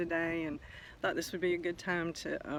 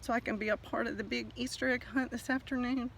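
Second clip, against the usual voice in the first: lightly raised small egg voice pleading for help; a hint of a little egg begging; 6 semitones higher than usual. Little egg calls to the bass fish for help, mildly pleading. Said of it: "The little egg cried out".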